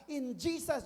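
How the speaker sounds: high-pitched imitation of someone declaring; acted declaration. Imitating believers who declare blessings, high earnest declaration. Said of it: "Yung mga nagdideklara".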